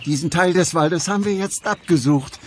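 ordinary talk

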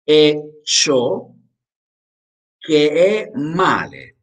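slow, clear phrases with long pauses between; slow dictation with pauses. Shown as a demonstration. Teacher dictating phrase by phrase for repetition. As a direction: pause after each phrase for the class to repeat. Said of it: "Ok, continuamos".

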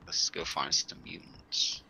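slow whispered mutter. Pretend. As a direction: creep along in a low whisper. Game mission muttering.

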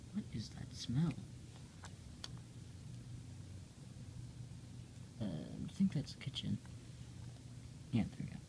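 soft unvoiced whisper, sniffing around. Hungry character whispering about the kitchen smell. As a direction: whisper as if sneaking toward a smell.

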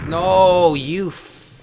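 high, loud cut-off curse; angry outburst. Real, not acted. Gamer nearly swears at a death in game, angry outburst cut short. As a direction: snap before catching yourself. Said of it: "wasn't gonna say anything rude".

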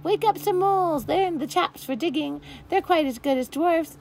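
a forest creature calling out ideas; eager creature. A narrator's reading. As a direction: creature in the crowd calls out advice. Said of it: "said a voice".

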